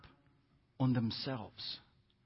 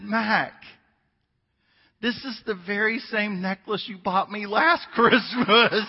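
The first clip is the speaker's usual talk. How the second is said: laughing wife; 5 semitones higher, 8 dB louder, slower than usual. Retold or imitated. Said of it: "She said".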